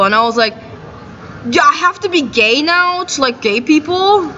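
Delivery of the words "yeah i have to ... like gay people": higher-pitched mock question; sarcastically baffled; retold incredulous retort. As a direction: throw the accusation back in disbelief.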